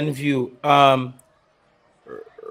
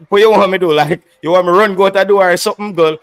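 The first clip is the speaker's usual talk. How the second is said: exasperated; 3 semitones higher, 6 dB louder, faster than usual. Real, not acted. Exasperated at commenter.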